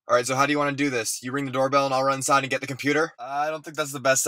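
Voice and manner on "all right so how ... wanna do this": normal talking voice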